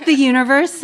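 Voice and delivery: high, loud words through real laughter; laughing. Real, not acted. Speaker echoing a colleague's joke about her podcast, laughing. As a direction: echo the joke while really laughing.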